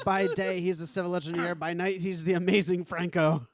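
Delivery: loud showman build-up; dramatic announcer. Pretend. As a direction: announce him like a superhero. Mock dramatic superhero intro.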